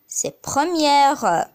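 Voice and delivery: première drawn out slowly; slow demo. Shown as a demonstration. Teacher giving the feminine form, slow. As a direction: model it slowly for learners. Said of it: "le féminin de premier".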